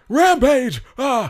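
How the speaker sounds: big arcade announcer yell; fighting game announcer. Pretend. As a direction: shout the title like a fight game. Announcing Rampage movie hype.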